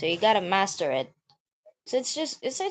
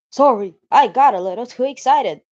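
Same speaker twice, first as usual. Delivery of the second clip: put-on sheepish girl voice; 4 semitones higher, 10 dB louder than usual. Sayori apologizing.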